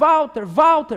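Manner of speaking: loud, high-pitched shout.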